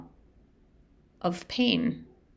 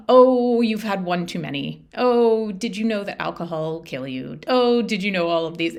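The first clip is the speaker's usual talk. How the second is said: mock-nagging, louder on each oh; preachy nagging; 6 dB louder than usual. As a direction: imitate a self-righteous sober friend. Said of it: "I definitely went down the road of".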